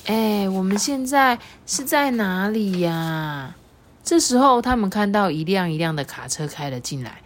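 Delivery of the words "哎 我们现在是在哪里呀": small voice asking. Acted. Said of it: "天米就问说".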